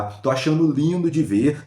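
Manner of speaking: slow, drawn-out relish; savoring repeat. Real, not acted. Vlogger relishing the anchor's criticism, slowly. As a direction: let each word linger with satisfaction. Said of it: "e eu tô achando lindo de ver".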